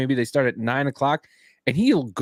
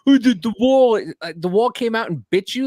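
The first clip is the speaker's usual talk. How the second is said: sarcastic mock sympathy; 6 semitones higher, 5 dB louder than usual. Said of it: "I'm like".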